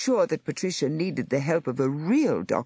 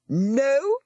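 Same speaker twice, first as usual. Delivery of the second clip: short, high, louder snap of refusal; snapped; 11 semitones higher, 4 dB louder than usual. Acted. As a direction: cut her off with a sharp no. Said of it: "the nurse snapped".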